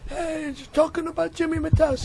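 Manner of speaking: high-pitched sitcom character impression; Jim Ignatowski. Shown as a demonstration. Comic prompted by the host, does Jim Ignatowski. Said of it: "Jim Ignatowski".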